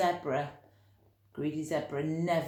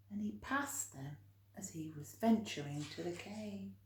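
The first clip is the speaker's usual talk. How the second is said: whisper; 2 semitones higher, 9 dB quieter than usual. A narrator's reading. Whispered aside in story.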